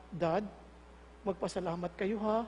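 very soft, low reply to dad; meek child. Acted. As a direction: answer Dad quietly and meekly. Child meekly answers dad. (mahina at maamong anak)

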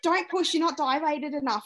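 high-pitched imitation of a firm midwife; mock stern warning. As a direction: warn her off firmly, retold. Midwife warns not to push.

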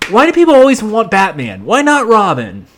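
mock-aggrieved, pitch swooping high; imitated indignant complaint. Robin asking why not him, mock indignant. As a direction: whine it as a put-out sidekick. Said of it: "Something like that".

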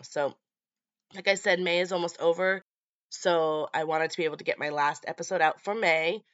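ordinary talk, nothing marked

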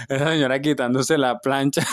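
giggling through the words; talking through real laughter; laughing. Real, not acted. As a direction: laugh while saying it. Laughing at the denture image.

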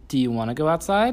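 high, loud sing-song parent voice. Real, not acted. Parent talking to toddler.

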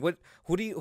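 ordinary talk, nothing marked

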